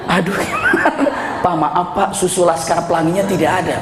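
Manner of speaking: retelling through giggles; laughing while quoting. Retold or imitated. Preacher laughing as he retells the friend's words. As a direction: keep laughing through the quote.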